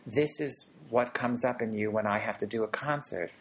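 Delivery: put-on calm a frightened child gently; tender reassurance. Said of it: "And I just say to the child".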